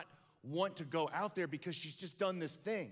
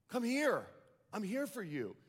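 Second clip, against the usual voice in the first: higher, louder pleading call; 7 semitones higher than usual. Acted. Father calling his daughter through the office door, louder. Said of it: "the dad just yells louder".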